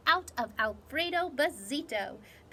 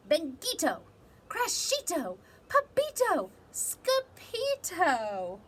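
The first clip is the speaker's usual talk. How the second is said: loud, rising calls of names; calling out; 6 semitones higher, 5 dB louder than usual. Acted. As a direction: call the kids down the hall. Mother calling the kids.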